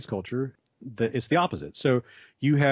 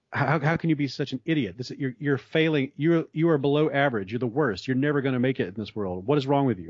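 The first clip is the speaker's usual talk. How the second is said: mock berating; 3 semitones higher than usual. Teacher berating students over a mistake, in a mild mock scolding tone. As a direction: play a teacher tearing into a failing pupil, half-hearted. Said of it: "just berate them and say".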